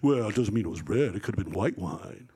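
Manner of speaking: low, put-on know-it-all voice; smart-aleck know-it-all. Know-it-all objecting that it wasn't red, mock smart-aleck. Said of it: "some smart aleck know-it-all goes".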